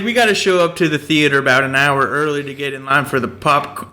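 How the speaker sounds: mock southern accent for a friend; a light southern accent, quoting. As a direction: slip into a hint of Southern twang. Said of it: "like, a southern accent".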